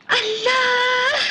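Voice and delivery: long drawn-out amazed wail; slow, awed exclamation; awed gasp. Acted. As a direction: stretch it slowly in childish wonder. Child awed by her photo.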